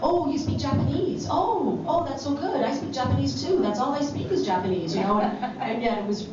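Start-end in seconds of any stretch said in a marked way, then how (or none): 0.0-4.9 high, bright mock gushing; a hint of a gushing director; mimicking the director. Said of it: "she'd say stuff like".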